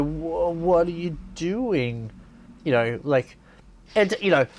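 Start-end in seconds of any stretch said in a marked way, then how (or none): 0.0-2.1 mock bafflement. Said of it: "They go".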